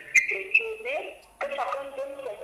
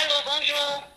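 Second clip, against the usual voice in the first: echoing like a metal tank; boomy, resonant phone echo; inside metal tank; 5 dB louder than usual. Real, not acted. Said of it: "ça résonne ici".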